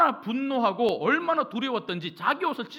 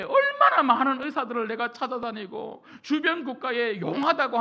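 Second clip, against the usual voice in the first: lightly acted husband protesting to his wife; retold exasperated husband. Naaman answering his wife about trusting a servant's word, lightly exasperated. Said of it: "자기 남편에게 이야기했을 때에 나아만이".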